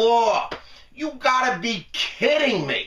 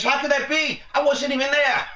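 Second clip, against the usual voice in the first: higher, indignant put-on voice of the accused congressman; mock innocent protest; 6 semitones higher than usual. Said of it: "He says".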